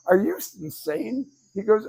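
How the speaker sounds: high-pitched, incredulous comeback; mock-astonished, pitched well up; Tony Robbins. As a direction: imitate an amused, can't-believe-it retort. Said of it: "he starts laughing, and he goes".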